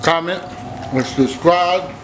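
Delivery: talking with mouth full. Real, not acted. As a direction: talk around a bite of food. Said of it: "I'm sorry if I'm talking with my mouth full".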